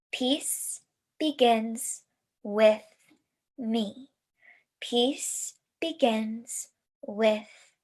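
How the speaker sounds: slow, even chant; slow spoken affirmation; indoor voice. Shown as a demonstration. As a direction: chant it slowly aloud. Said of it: "start with our indoor voice".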